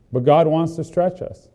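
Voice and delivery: normal talking voice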